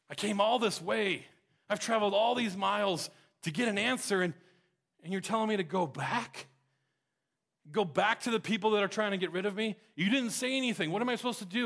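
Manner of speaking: a hint of an exasperated prophet; defeated Elijah. Defeated Elijah pleads with God.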